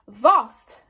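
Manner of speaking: loud, gleeful single word; happy interruption. A narrator's reading. Old Wrinkly cutting in on Stoic, gleeful. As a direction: burst in happily over the chief. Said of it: "interrupted old Wrinkly happily".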